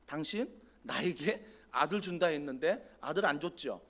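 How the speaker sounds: mildly acted challenge to God; confrontational questioning. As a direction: demand an answer, with understated grievance. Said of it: "이게 막 따지는 거예요".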